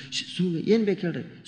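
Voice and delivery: soft, secretive shushing; hushing. Retold or imitated. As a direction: imitate a host keeping a guest quiet. Host hushes guest for studying boy. (ಮೆಲುದನಿಯಲ್ಲಿ ಗದರಿ ಸುಮ್ಮನಿರಿಸುವುದು)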